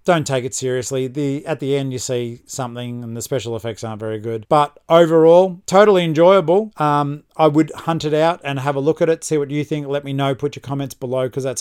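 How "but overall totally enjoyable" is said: emphatic. Real, not acted. Emphatic summary.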